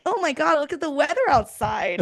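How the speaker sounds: a lightly mocked chatty cold caller; mock chirpy caller. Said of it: "some stranger calling you and being like".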